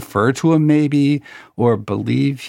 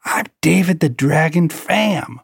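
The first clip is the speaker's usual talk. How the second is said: self-important poker pro, slow and higher; David Pham; 5 semitones higher, slower than usual. Retold or imitated. Rival poker pro announcing himself to impress, imitated grandly. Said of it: "And he says".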